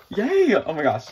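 high, loud cheer; joyful yay. Real, not acted. Celebrating her pull for viewers with a high cheer.

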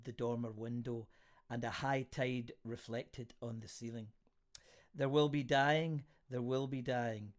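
measured, deliberate verse reading; poetry reading. A narrator's reading. Host reads a friend's poem to listeners, poetry reading. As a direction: recite it line by line with pauses.

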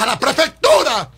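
high, loud call; imitated shouting supporter; crowd yell. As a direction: cry it like a supporter.

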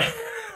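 short burst of giddy laughter. Real, not acted. Gushing to a soulmate, giddy laugh.

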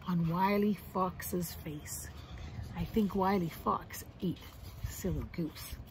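hushed, low, ominous whisper; spooky hush. Acted. Reading children the scary ending, hushed. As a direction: drop to a secret scary whisper.

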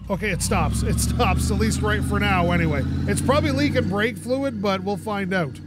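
loud over road noise; speaking up over the car. Real, not acted. Brakes tested while driving.

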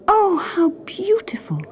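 breathless whisper of wonder. A narrator's reading. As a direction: whisper in awe at the stars. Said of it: "she whispered".

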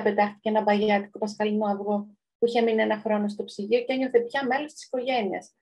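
measured read-aloud storyteller voice; story narration. A narrator's reading. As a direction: read the tale out to listeners. Reads a children's story aloud. (αφήγηση παραμυθιού)

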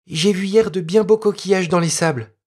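put-on a spoiled little girl tempting her friend; lively little girl. Little girl inviting her playmate, lively girl voice.

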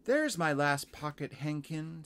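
put-on high little-girl exclamation; Lucy. Girl finding her last hankie, high voice. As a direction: call it high as a pleased child. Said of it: "said Lucy".

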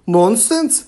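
booming. A narrator's reading. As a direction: boom it out to silence them. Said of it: "boomed the chief".

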